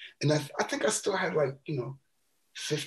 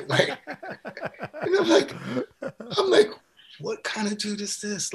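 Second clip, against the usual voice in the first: pitched way up, slow and amazed; stunned disbelief; 10 semitones higher, slower than usual. Retold or imitated. Narrator stunned by generous Jocko, high slow disbelief. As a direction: squeak out your astonishment.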